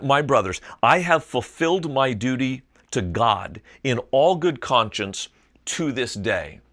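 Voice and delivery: booming verse reading; proclaimed scripture. Acted. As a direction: declaim it to the council like a preacher. Reading Paul's courtroom speech aloud.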